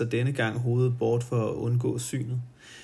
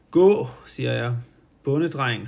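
louder, firm dismissal; commanding order; 5 dB louder than usual. Acted. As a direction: throw him out with a sharp order. She orders him out. (kvinden jager Per ud, bydende og højere)

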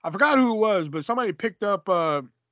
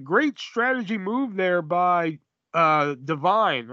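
slow, drawn-out mock commentator call; lightly imitated play-by-play man; slower than usual. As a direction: drag it out like a bland TV announcer. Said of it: "And it was like".

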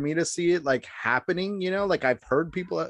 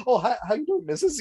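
higher, mock-sweet politeness; overly polite; 6 semitones higher than usual. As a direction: play it hella polite to the passing lady. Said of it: "acting hella polite and shit".

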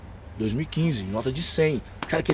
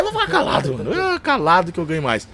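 mock resigned; 4 semitones higher, 3 dB louder than usual. Giving up arguing with God.

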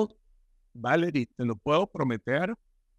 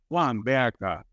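mimicking a boy's gruff voice; 3 semitones lower than usual. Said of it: "porque habla así muy grueso".

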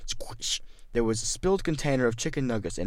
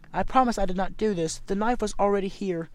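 Nate voice; 10 semitones higher, 3 dB louder than usual. Acted. Nate pleads innocence to officer.

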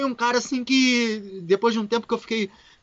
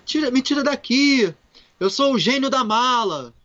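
genie in the suitcase; 4 semitones higher, 3 dB louder than usual. Retold or imitated. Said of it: "E de repente eu falando".

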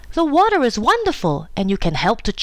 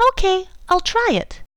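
Susie's voice; 13 semitones higher than usual. Acted. Susie's voice in story.

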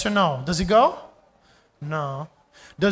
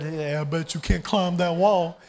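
lightly voiced high-school kid; a hint of a teenage dare. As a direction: put on a teen voice, lightly. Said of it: "that's my high school voice".

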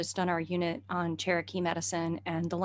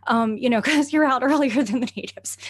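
eager excitement; 7 semitones higher, 8 dB louder than usual. Retold or imitated. Talking to a plant.

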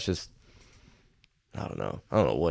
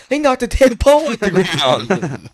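high, loud mock-hysterical yell; dad freaking out; 11 semitones higher, 10 dB louder, slower than usual. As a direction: yell it like a dad losing it, drawn out. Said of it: "my dad's freaking out".

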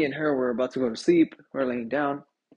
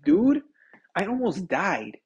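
mock-dramatic protest, first word punched loud; 4 dB louder, slower than usual. Man telling girlfriend she choked him, dramatic. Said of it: "I was being dramatic".

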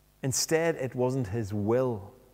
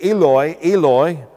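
high, loud calling out; strained cry; 5 semitones higher, 10 dB louder than usual. Acted. Preacher showing how Jesus' cry was misheard, strained cry. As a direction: cry it out, raised and forceful. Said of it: "the strained voice owing to death by asphyxiation".

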